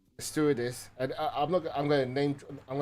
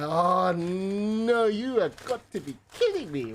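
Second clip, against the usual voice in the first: much higher, louder cry of disbelief; exasperated outburst; 8 semitones higher, 8 dB louder, slower than usual. Retold or imitated. Son seeing dad throw up into the bag, exasperated shout. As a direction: howl it like your day just collapsed.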